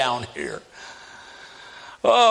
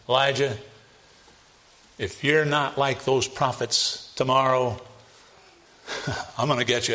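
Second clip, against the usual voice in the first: wicked queen threat; 3 semitones lower than usual. Retold or imitated. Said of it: "Send a message to Elijah".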